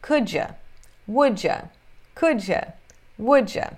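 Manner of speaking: "Could ya", "Would ya" as "kudja", "wudja"; reduced pronunciation. Shown as a demonstration. Teacher recapping pronunciation for students, "Could ya" said as "kudja". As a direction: drill "Could ya" and "Would ya" as linked single words. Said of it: "ficou claro a pronúncia aqui".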